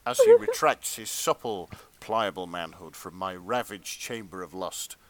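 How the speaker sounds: measured, hushed-down storyteller read; dramatic fan fiction narration. A narrator's reading. Reader performing steamy fan fiction for friends, dramatic narration. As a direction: read it as earnest literary erotica.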